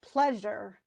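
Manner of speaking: "pleasure" as PLEA-sure, first syllable stressed; "pleasure" set apart, strong beat then weak. Shown as a demonstration. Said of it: "The stress is on ples".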